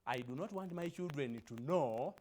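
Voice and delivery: lightly voiced prisoner hunting for his pen, worried; poem recitation.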